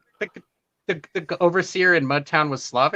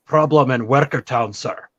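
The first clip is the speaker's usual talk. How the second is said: put-on Scottish accent; 6 dB louder than usual. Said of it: "He was Scottish or Irish".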